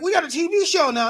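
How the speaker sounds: high-pitched mock announcement; lightly acted, lifted voice; retold announcement. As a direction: pitch it up as someone else's news. Quoting the makers' announcement.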